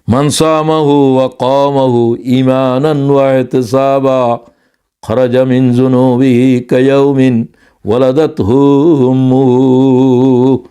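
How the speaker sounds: slow, measured Arabic recital; hadith recitation. Acted. Preacher reciting a hadith in Arabic, slow and measured. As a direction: intone the hadith with care.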